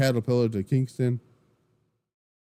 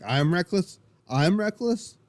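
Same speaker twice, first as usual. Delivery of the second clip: indignant disbelief; 6 semitones higher, slower than usual. Retold or imitated. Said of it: "And Woods fires back".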